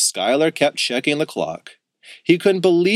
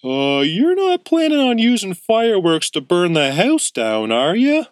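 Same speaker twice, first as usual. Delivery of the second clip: raised, louder voice of a doubtful uncle; skeptical uncle; 8 semitones higher, 4 dB louder than usual. A narrator's reading. Uncle Louie questioning the boys about fireworks, suspicious. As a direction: squint at them and ask with suspicion. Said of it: "Uncle Louie looked skeptical".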